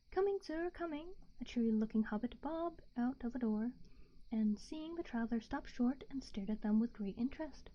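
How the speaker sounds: hushed bedtime story narration; whispered story reading. A narrator's reading.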